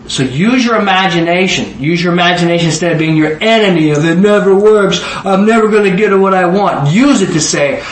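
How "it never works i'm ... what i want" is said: mock complaint. Voices a defeatist's complaint.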